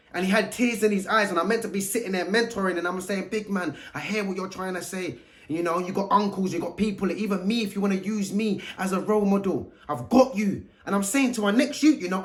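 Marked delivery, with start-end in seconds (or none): 3.3-10.6 gentle reassurance. Retold or imitated. Mentoring a tearful boy.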